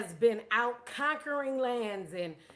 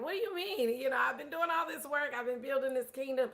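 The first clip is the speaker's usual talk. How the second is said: acting out a distraught ruler; 2 semitones higher, faster than usual. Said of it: "He's distraught. He's like".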